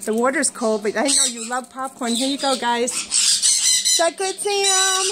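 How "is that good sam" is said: very high, slow squeaky coo; squeaky pet voice. Real, not acted. Owner asking Sam about popcorn, high squeaky coo.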